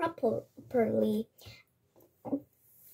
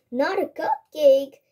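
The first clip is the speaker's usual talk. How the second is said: surprised; 3 semitones higher, 7 dB louder than usual. A narrator's reading. Grandpa surprised by cup.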